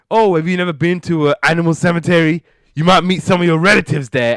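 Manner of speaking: high, loud teasing; hammed-up sitcom needling; mocking jibe. George taunting Bentley at the parakeet's funeral, mocking.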